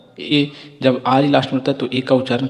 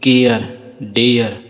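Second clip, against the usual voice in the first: slow drill reading; much slower than usual. Shown as a demonstration. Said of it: "जैसे पढ़िए".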